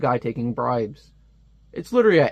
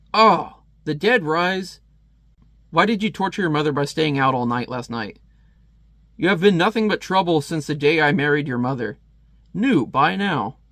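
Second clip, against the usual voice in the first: mustache guy yelling. Acted. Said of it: "this mustache guy just yelling".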